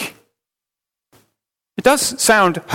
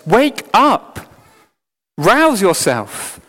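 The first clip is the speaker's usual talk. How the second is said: higher, sharp wake-up command; spiritual slap; 4 semitones higher, much slower than usual. Acted. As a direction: slap them awake. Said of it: "spiritually slaps them in the face".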